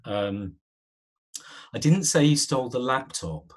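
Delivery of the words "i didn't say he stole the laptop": stress on didn't. Shown as a demonstration. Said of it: "Let's try another one".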